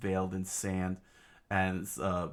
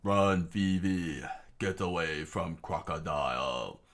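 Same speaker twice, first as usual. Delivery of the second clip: slow, drawn-out mild cry; king's warning, only lightly shouted; mock scream; 2 semitones lower, slower than usual. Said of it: "the king screamed out".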